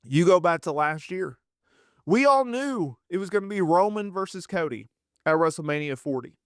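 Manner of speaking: normal talking voice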